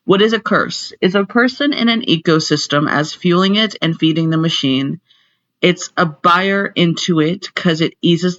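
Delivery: loud, declaiming lecture voice. Acted. Teacher back to the lecture, projecting loudly. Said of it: "So back to lecture".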